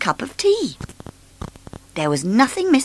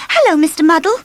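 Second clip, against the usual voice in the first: high bright hello; cheery phone greeting; 11 semitones higher, 6 dB louder, faster than usual. A narrator's reading. Miss Sunshine on phone.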